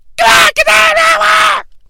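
piercing, shrill, very high-pitched shout. Commenting on a wrestling match, imitating the yelling woman from Space Mutiny. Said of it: "That's a sampling of what the lady sounds like in Space Mutiny".

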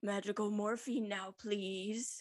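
creepy put-on voice with an edge. Recapping an episode, the speaker quotes Gerard's line in a Gerard voice. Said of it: "That was my Gerard voice".

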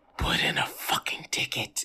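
spooky, ghostly, taunting whisper. Playing a ghost who whispers to an annoying office worker: ghostly whisper. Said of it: "use my whisper to say".

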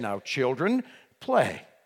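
firm, commanding, authoritative voice. Speaker shows what you say to children, indicative command voice. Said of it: "that's the indicative command voice".

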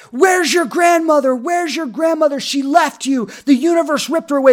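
put-on high, intense screaming. Retelling how people in a training room screamed about a grandmother: imitating people screaming. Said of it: "literally screaming at me".

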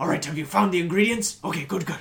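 put-on Russian accent. Retelling how a co-worker talks after asking a question, imitating a Russian accent. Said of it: "always does like a Russian accent".

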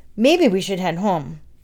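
ordinary delivery, nothing marked

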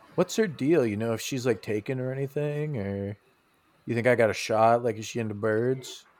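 put-on whisper. Retelling what someone looked up and whispered to you: retelling a whisper. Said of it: "McElroy like looks up at you and whispers".

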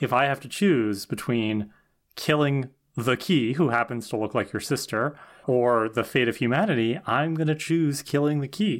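ordinary talk

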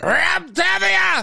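very high, rough, top-of-the-lungs yell. Retelling calling out to an actor in the green room: retelling a yell at top of lungs. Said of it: "So at the top of my lungs, I yelled out".

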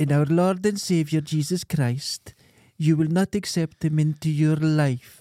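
put-on Gaelic-accented speech. Retelling how a girl the speaker used to date talked, imitating her speech. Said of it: "she would talk like this".

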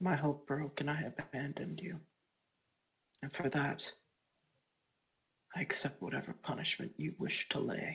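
very quiet, hushed whisper, on the verge of tears. In a role-play scene, a character speaks to another in a tearful whisper. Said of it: "I'm fucking whispering because I'm on the verge of tears".

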